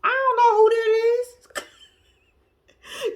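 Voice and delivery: high, slow, drawn-out feigned ignorance; dismissive Noble. Retold or imitated. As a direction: act like you've never heard of her. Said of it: "That's the vibe Noble giving me".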